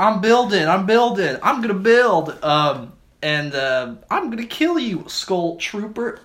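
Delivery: put-on high, loud, giggly streamer girl; e-girl gamer voice. E-girl streamer playing Fortnite.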